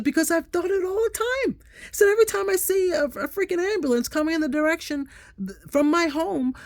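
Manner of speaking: high, loud worked-up admission; worked-up confession. Retold or imitated. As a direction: blurt out your worst fear. Her own anxious retold quote.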